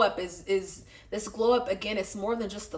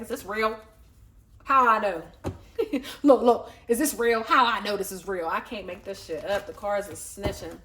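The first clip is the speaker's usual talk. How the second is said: mock anxious; 3 dB louder than usual. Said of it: "Anxious than a motherfucker. You go like".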